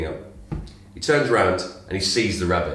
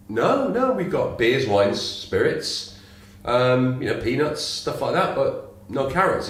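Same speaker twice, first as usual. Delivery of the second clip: a lightly raised barman voice; lightly voiced barman listing drinks; higher barman voice, patient; 4 semitones higher, slower than usual. Joke, barman answers rabbit.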